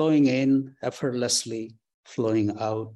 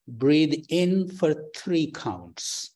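slow breath counting; 3 semitones higher, slower than usual. Acted.

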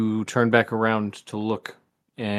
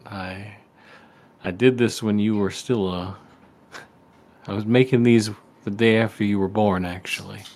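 folksy dad voice. Acted. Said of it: "folksy voice he always used to do".

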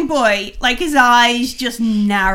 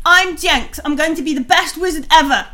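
lightly voiced eager kid, pitched up; a touch of boyish bragging, higher; boastful boy wizard; 4 semitones higher, 4 dB louder than usual. Game master as young Jenks introducing himself, lightly boastful boy.

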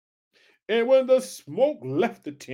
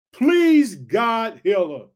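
crying out; 5 dB louder, much slower than usual. Acted. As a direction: plead aloud for his sister. Moses crying to the Lord.

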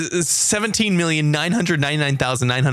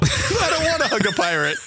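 higher announcer voice for the title; mock title read; 8 semitones higher than usual. Host announcing the mock book title in a higher put-on voice.

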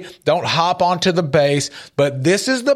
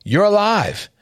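grandfather stopping him; 6 semitones higher, faster than usual. Retold or imitated. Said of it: "And he would say".

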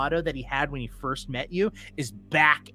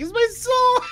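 high, loud, cackling shout; laughing shout; 5 dB louder than usual. Acted. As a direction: gambler laughs off his soul. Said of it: "he just starts laughing".

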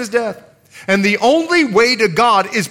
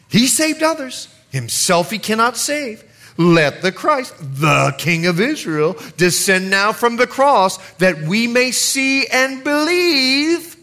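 mocking; 3 semitones higher than usual. Priests mock Jesus among themselves at the cross, mocking. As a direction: declaim it as mockery, rising toward the end. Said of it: "mocking among themselves".

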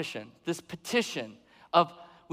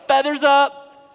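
drawn-out, loud and higher; feathers up; 7 semitones higher, 12 dB louder, slower than usual. Acted. Preacher miming the peacock showing off, loud and slow. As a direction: puff up like a proud peacock.

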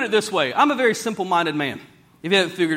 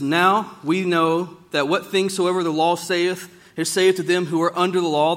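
scripture reading; 3 semitones lower than usual. Acted. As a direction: read it out steadily like holy writ. Reads scripture slowly.

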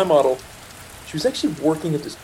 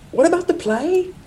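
put-on high girlish quote. Girlfriend's question voiced in story.

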